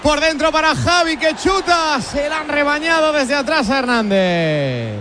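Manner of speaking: radio football commentary, lively; live play-by-play. Real, not acted. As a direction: call the match live on radio. Narración en directo del partido. (narración radiofónica en directo)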